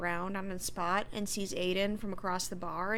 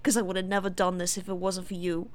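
eager put-on voice, starting loud; acted-out hopeful delight, easing off; Steve; 3 dB louder than usual. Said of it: "And he goes".

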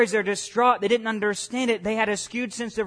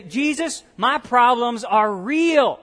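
higher, louder, slow cry of protest; impassioned plea; 4 semitones higher, 5 dB louder, slower than usual. Acted. A believer crying out to Jesus, higher and louder. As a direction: plead it out slowly, pressing hard.

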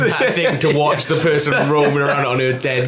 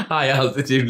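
laughing quote. Retold or imitated. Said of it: "That's the best thing you've ever written".

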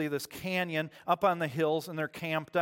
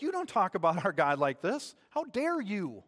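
righteous indignation; 3 semitones higher than usual. Acted. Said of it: "righteous indignation".

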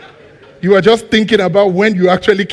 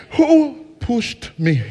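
indignant shout; 6 semitones higher, much slower than usual. Acted. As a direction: drag it out, demanding an answer. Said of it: "Okay, let me ask you".

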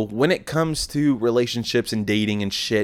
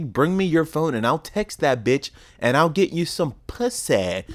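a lightly voiced pushy buddy, pitched higher; imitating Mark; 5 semitones higher than usual. Teasing Mark's offer to text girls for him, lightly hammed-up.

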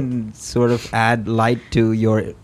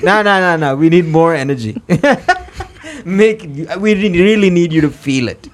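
demanding director; 6 semitones higher, 5 dB louder than usual. Retold or imitated. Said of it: "they're like".

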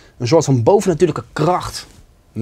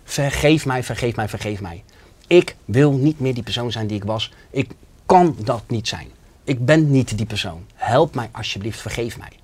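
pleading for forgiveness. Retold or imitated. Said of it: "Ik zei".

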